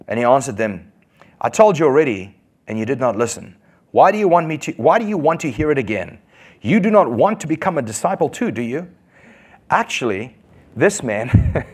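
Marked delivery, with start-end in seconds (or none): 1.4-8.9 sarcastic. Retold or imitated. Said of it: "was being sarcastic".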